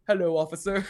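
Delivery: lightly voiced big boy greeting; a kid putting on a grown-up voice; hint of a dopey, would-be-manly voice; dumb big boy voice. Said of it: "he does his dumb, like, big boy voice".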